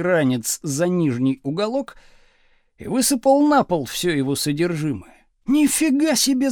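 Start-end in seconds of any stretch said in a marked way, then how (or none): 5.5-6.5 high, indignant cry; outraged yell. A narrator's reading. Pupil whose satchel was tipped out, yelling indignantly. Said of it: "завопил Градусов".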